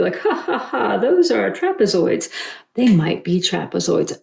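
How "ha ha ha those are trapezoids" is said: mock laugh. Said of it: "you can laugh each time I do".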